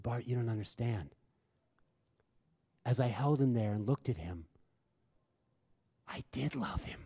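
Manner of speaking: soft, earnest retold confession; tender explaining. Friend explaining her love for a dying stranger, tender. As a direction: explain it gently, voice dropped soft.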